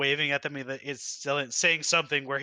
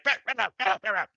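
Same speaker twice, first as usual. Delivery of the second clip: creature yelling; 6 semitones higher, much faster than usual. Acted. Kobold chief yelling at underlings.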